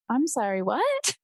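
retold disbelief, pitch leaping on "what"; shocked. Actress retelling her reaction to the prop glasses, shocked.

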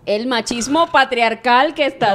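slow, drawn-out mock slogan; mock declamation. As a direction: declaim it like a protest speech, stretching the words. Mock slogan against machismo.

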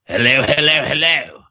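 a half-practiced Australian clone trooper impression. Showing co-hosts his practiced clone voice, mock Australian accent. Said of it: "That was my clone voice".

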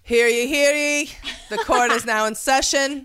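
booming court crier call; town crier. Pretend. Opening court as judge.

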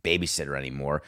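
mock hushed confiding. Warriors brass confiding to Steph Curry, hushed low voice. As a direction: lean in and confide it quietly. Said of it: "they went to Steph Curry and said".

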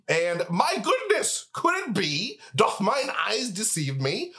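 slow, grand mock astonishment; hammed-up old-fashioned surprise; theatrical announcer. Mock-archaic theatrical intro.

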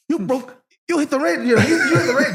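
hammed-up Asian accent caricature, giggling; mock Asian accent. Retelling the caddie's shocked words in a mock Asian accent. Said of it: "That was an Asian boy".

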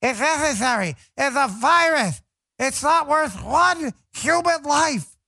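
high, mocking whine of the other side; mocking liberal voice. Host mimicking liberals defending lockdowns, high mocking voice. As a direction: parody their excuses in a high sneer. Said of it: "love to hear the liberals defend this".

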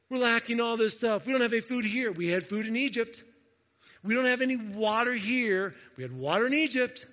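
mock the grumbling people; whiny mock complaint; complaining Israelites.

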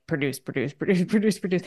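lightly voiced nagging gremlin chant, breaking into a laugh; a hint of a pushy little critic repeating the order; inner gremlin voice. Her inner gremlin nagging her to produce, lightly voiced chanting. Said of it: "that inner gremlin that's always like".

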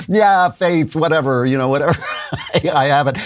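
high, dismissive mock Trump; a lightly voiced, laughing Trump impression; mock Trump shrug. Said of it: "He sort of said".

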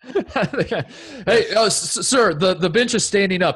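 mock player complaint. Imitating Chris Paul to the ref.

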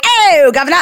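jokey Cockney greeting; hammed-up London accent; mock British accent. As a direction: call it out in a fake British accent. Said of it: "I use a different accent every day".

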